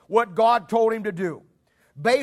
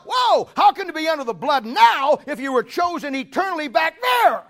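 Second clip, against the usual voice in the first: fervent preaching; 5 semitones higher, 3 dB louder than usual. Real, not acted. Preacher rebutting Calvinist, fervent.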